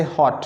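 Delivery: हॉट said as one quick single beat. Shown as a demonstration. Teacher showing students a one-syllable word, in one go. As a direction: let हॉट out in a single push. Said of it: "जो एक झटके में आप बोल देते हैं".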